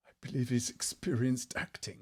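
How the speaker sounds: dry, very soft mock British line through a laugh; a hushed, deadpan Alan Rickman verdict; imitating Alan. Alan judging a fellow actor, soft and deadpan. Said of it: "Alan just went".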